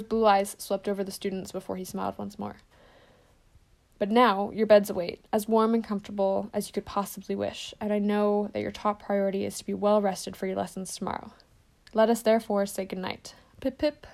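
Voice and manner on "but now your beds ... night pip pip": lightly voiced kindly headmaster, easing into good cheer; a hint of the old wizard, twinkly; gentle send-off, chirpier at the end; Dumbledore's good night.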